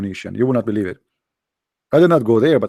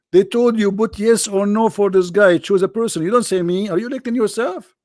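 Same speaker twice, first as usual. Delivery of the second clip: higher, incredulous retelling of the instruction; exasperated mock; 7 semitones higher than usual. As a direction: scoff at the absurd vote. Mocking the election instructions.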